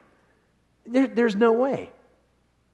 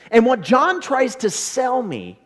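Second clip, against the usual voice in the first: slow; 5 semitones higher, 4 dB louder, slower than usual. Shown as a demonstration. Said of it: "get this, what John tries to sell me".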